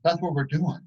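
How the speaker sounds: rally the group with genuine enthusiasm; real excitement. Real, not acted. Enthusing about leaving legacies.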